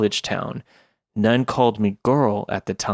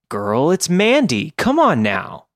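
put-on valley girl voice; 5 semitones higher than usual. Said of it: "a chirpy valley girl".

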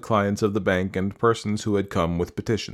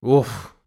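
heavy weary "oof"; worn-out groaning sigh; exasperated sigh; 4 semitones higher, 5 dB louder than usual. A narrator's reading. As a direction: let out an exasperated puff. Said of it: "sighed Kistunov".

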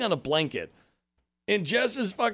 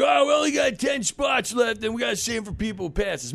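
a raised, mocking impression of the gate lady; snooty parking attendant; 5 semitones higher, 3 dB louder than usual. Retelling the gate lady refusing parking, in a high mock voice. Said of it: "She's like".

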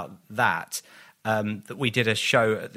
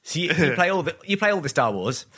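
teasing naive question; 5 semitones higher than usual. Pretend.

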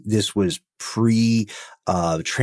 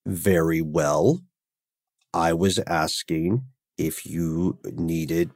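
lower, slow, mildly chilly retelling; icy reply; 3 semitones lower, much slower than usual. Retold or imitated. Offended Berliner answers the tourist in English, icily. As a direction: imitate a cool, deliberate German reply. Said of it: "there would be some ice in the room".

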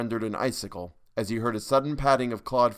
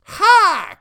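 high loud Ha; high witch cry; triumphant cry; 14 dB louder than usual. A narrator's reading. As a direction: bark it in triumph. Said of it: "cried Jenny".

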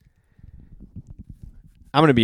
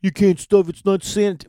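mock fussy voice; 7 semitones higher, 4 dB louder than usual. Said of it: "People like".

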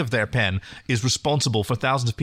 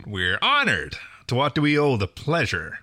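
Southern charm. Acted. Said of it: "his best Southern boy charm".

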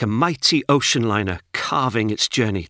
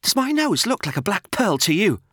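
mouse voice; 8 semitones higher than usual. Acted. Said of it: "Noel asked".

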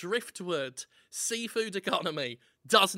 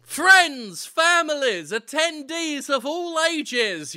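announcer; 5 semitones higher, 7 dB louder, slower than usual. Pretend. Announcing the show.

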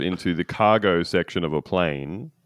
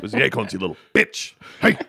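Scrat voice. Acted. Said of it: "he sounds like this".

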